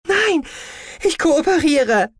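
high, firm rebuff; brushing off. A narrator's reading. Prisoner rebuffs her comrade and chooses to cooperate, firm. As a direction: shut the comrade down. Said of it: "schmetterte sie die Kameradin ab".

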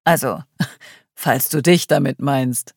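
teasing with a laugh. Acted. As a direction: chuckle through the jab. Adrian laughs at his jab.

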